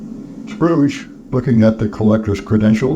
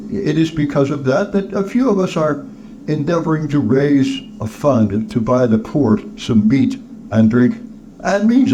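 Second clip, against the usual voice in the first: high and halting, then earnest; charity collector, flustered appeal; 4 semitones higher than usual. Acted. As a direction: plead the cause, pitched up at moments.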